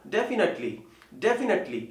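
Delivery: डेफिनेटली with short "nuht"; correct pronunciation. Shown as a demonstration. Teacher correcting learners, डेफिनेटली without the "nate" sound. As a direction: say डेफिनेटली as DEF-i-nuht-lee. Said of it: "तो ये बनेगा".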